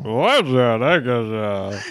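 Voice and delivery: jaw pushed forward; underbite. Shown as a demonstration. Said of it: "if you push your jaw forward".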